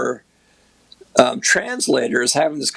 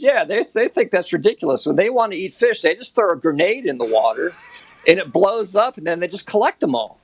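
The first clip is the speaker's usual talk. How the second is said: amused translator; 5 semitones higher than usual. Retold or imitated. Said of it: "the translator smiles to me and laughs".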